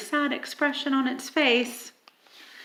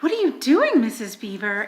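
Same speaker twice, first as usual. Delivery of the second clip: exclaiming; faster than usual. Acted. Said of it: "exclaimed Susan".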